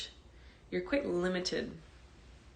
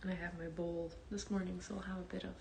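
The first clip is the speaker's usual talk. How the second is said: hushed class welcome; 16 dB quieter, faster than usual. Real, not acted. Teacher waiting for live students to join before meditation, hushed. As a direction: speak gently and quietly, as if settling the room.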